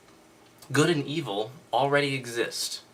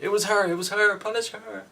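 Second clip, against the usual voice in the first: much higher, whining "it was her" in mock panic; whiny blaming Adam; 11 semitones higher, 5 dB louder than usual. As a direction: point the finger like a tattling child. Adam blames the woman.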